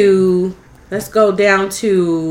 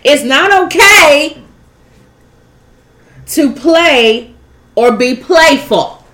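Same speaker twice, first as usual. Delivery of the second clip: trying not to laugh; 5 semitones higher, 5 dB louder, slower than usual. Real, not acted. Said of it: "I'm trying to be serious".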